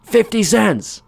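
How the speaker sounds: high slow meek answer; mock scared clerk. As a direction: say it trembling with fear. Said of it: "clerk answers".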